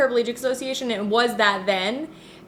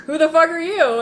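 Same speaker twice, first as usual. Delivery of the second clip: retold louder swearing; 8 semitones higher, 6 dB louder than usual. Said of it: "and he was like".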